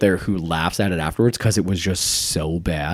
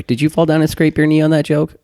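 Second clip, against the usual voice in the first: higher, louder mock pity; mock sympathetic; 8 semitones higher, 6 dB louder than usual. Comic reading a comeback to a heckler, mock sympathy. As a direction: talk down to the heckler like a hurt child.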